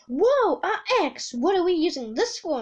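excited. Acted. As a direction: blurt it with excited wonder. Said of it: "Amelia said excitedly".

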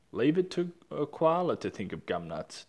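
laughing. Acted. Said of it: "Dingo laughed".

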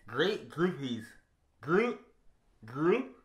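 mouthguard in, words mushy; wearing a mouthguard. Real, not acted. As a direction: talk around a mouthguard. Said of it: "You have to put the mouth guard in".

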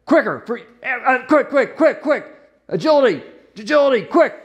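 rapid-fire directions, half laughing; excited coaching. Real, not acted. Therapist directing Abby's pushes on Sammy, excited and laughing.

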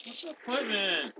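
high, slow, drawn-out whine; whining. Pretend. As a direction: whine it softly to annoy a teammate. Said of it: "Stop whining".

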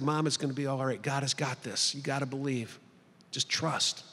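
low, soft, gently comforting; calm, hushed encouragement for a worried mother; retold reassurance. Son to mother the night before surgery, reassuring.

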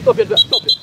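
high, loud shout across the pitch; urgent call. Real, not acted. Coach telling a player to throw in, urgent shout.

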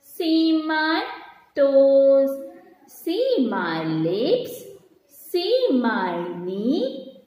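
very slow recitation with drawn-out words; poem reading. Shown as a demonstration. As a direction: recite it line by line for children to follow. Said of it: "we are going to read that poem". (ನಿಧಾನವಾಗಿ ಎಳೆದು ಪದ್ಯ ಓದುವುದು)

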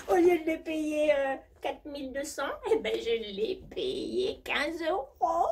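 high, breathy posh diva voice; hammed-up high society diva; rich diva character. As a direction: play a spoiled jet-set lady bragging. Same diva character continues.

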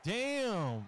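loud, high, drawn-out outburst; amazed exclamation. Real, not acted. Player reacting to a tackle, loud amazement. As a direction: shout it in amazement at the hit.

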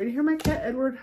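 ordinary delivery

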